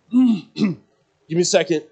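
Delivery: voiceless gasp into strained words; choked-up plea for time; winded. Retold or imitated. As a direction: croak it out after a throat punch. Hit in the throat, can't breathe.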